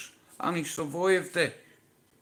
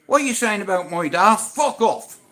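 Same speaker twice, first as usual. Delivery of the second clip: indignant son; 5 semitones higher, 8 dB louder than usual. Retold or imitated. Voices the future son.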